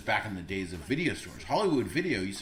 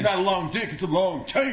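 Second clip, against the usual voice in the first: mock voice; 8 semitones higher, 5 dB louder than usual. High laughing mock voice.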